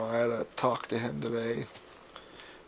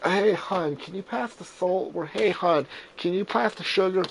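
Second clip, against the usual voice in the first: put-on higher-pitched, light southern accent; 6 semitones higher than usual. Asking relatives at the table, light southern accent. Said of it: "use my southern accent".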